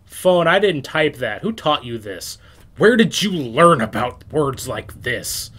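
slow, emphatic telling-off, loud at both ends; mock scolding. Telling off the phone over a typo, mock-outraged. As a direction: scold it like a naughty child, drawing out the words.

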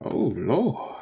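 laughing. Real, not acted. Laughing at a lyric.

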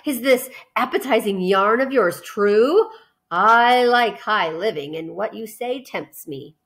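slow, relishing rat voice; lightly voiced greedy rat; tempted rat. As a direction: lick your lips over every word.

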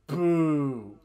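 long, loud drawn-out jeer; playful crowd-style boo; mock booing. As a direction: boo like a heckler. Jeering the fake accent.

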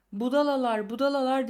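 mild narrated yell of rebuke; understated angry shout. A narrator's reading. Benjamin rebukes the cheering animals, mild shout. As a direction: cry out at fools, pitch lifted, volume held back. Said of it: "diye bağırdı Benjamin".

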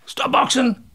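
high-pitched referee call; referee's command. Retold or imitated. Referee halting the fighters on the ropes, commanding.

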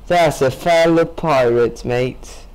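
a weak put-on British pirate accent; half-hearted British pirate voice; terrible British accent. Gamer greeting a fellow pirate in bad British accent. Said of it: "My British accent is terrible".

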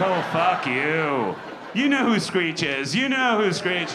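slow it down, then blow up at them; mock outrage. Comic snapping at young people who miss his references, loud mock outrage. Ranting at twenty-somethings about references.

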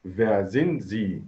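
very slow, stress on sind; slow model answer. Shown as a demonstration. Teacher models the correct answer for students, very slowly. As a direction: spell it out for the class. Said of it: "برافو، sind".

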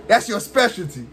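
laughing through the taunt; chuckling jab at the opponent. Real, not acted. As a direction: tease him with a laugh.

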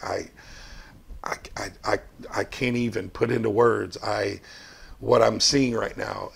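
understated imitation of someone too choked up to speak; retold tearful stammer. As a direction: stammer quietly as if lost for words through tears. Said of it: "he's just crying like a baby".

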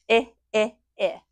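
repeated short vowel; short i sound. Shown as a demonstration. Teacher drilling the short i vowel. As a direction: model the vowel clearly. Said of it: "I says".

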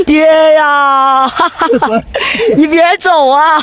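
high, drawn-out fake wail breaking into laughter; mock wailing. Mock daughter begs her "dad" not to go, laughing wail. Playfully wails for departing "dad.

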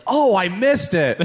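mock regret. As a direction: exaggerate the agony of missing out. Acting out regret at missing out.

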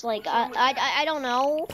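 stammering over repeated words; stuttering. Real, not acted. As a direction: stutter nervously through it. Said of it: "I don't know why I'm stuttering so much".

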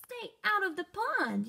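a cross little frog shouting; yelling frog. Acted. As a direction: bark it at your siblings. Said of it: "yelled Milton".

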